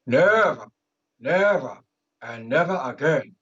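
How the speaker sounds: lightly voiced solemn oration; diva speech voice. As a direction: proclaim it like an inauguration. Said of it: "I'll channel my inner Ewok, my diva".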